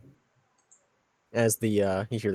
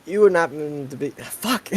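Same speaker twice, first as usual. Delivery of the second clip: Preston voice slipping in; 5 semitones higher, 3 dB louder than usual. Acted. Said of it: "Preston keeps coming back".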